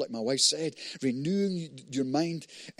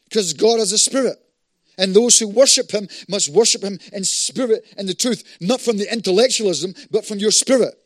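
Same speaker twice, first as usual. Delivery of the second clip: emphatic preaching; 4 semitones higher, 8 dB louder than usual. Real, not acted. Preaches at full force.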